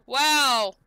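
loud shocked exclamation; surprised oh my. Real, not acted. Streamer reacting to a viewer's story, loud surprised gasp.

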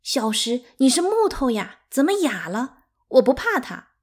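high, loud upset protest; hurt, sobbing outburst with mild tears; tearful. A narrator's reading. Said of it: "呜咽着说".

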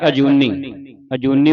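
ਅਜੂਨੀ with a clear opening short a; correct pronunciation. Shown as a demonstration. Teacher pointing out the initial letter, careful pronunciation. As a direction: sound the first vowel of ਅਜੂਨੀ, firm n. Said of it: "ਉਚਾਰਨ ਕਰਨਾ".

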